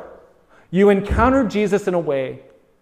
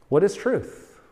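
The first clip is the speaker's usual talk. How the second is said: dismissive retort; 9 dB quieter than usual. Acted. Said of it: "retorted Pilate".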